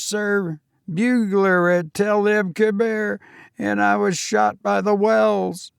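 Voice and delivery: put-on a nervous young servant answering his master; young Cockney servant. Thomas defends himself.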